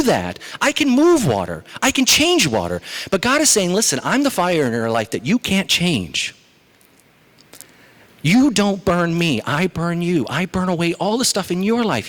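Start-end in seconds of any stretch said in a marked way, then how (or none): 3.7-12.1 booming, raised voice of God declaring. Acted. God warning Moses, firm and raised. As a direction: proclaim it as God, rising and forceful. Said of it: "he says".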